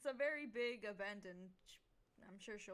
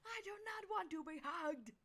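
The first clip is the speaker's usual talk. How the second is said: squeaky toy voice; 8 semitones higher than usual. Acted. Axe squeaked when squeezed.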